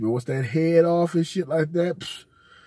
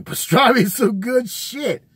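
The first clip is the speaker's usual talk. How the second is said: laughing; 9 semitones higher, 6 dB louder than usual. Real, not acted. Laughing praise of pastrami.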